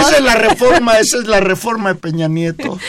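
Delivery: high squeaky voice; clown voice. Real, not acted. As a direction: pitch it up like a clown. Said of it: "sale voz de payaso".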